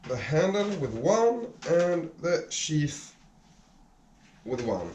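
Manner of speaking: straining against a stuck grip; opening a stuck jar. Real, not acted. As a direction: push the words out while pulling hard. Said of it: "And it's stuck".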